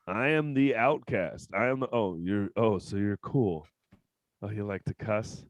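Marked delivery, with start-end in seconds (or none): 1.9-5.4 sneering nerd. Retold or imitated. Mocking nerds in a group.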